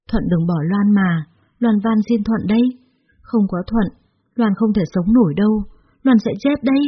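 mild acted sobbing, rising at the end; sobbing plea. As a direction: cry out that you cannot live without him. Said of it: "khóc nức nở". (khóc lóc van xin nhẹ)

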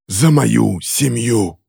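very slow, deliberate declaration; solemn vow. A narrator's reading. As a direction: draw out each word as an avenger's verdict. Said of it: "специально для неё повторил всё по-английски".

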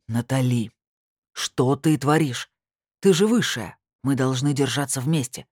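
возмущённо, медленно, громче; упрекать с нажимом. Acted. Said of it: "возмутился Люцифер". (Люцифер возмущён, громко и с упрёком)

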